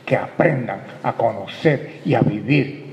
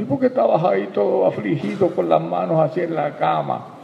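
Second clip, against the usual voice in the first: put-on higher, curious child's question; lightly voiced child; 7 semitones higher than usual. Child questioning papi in the story, lightly childlike. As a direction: ask it like a puzzled kid.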